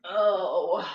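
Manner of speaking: a choked little oh, near tears; catching her breath as the tears come; holding back tears. Real, not acted. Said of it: "I'm gonna try not to cry".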